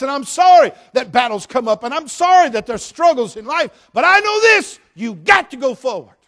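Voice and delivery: from firm to shouted, high and loud; rising sermon crescendo; preaching build. Acted. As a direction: climb to a full preacher's shout.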